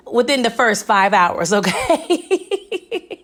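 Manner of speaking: laughing through the words; cracking herself up over Zeke doing laundry in jail. Real, not acted. Joking about Zeke in jail.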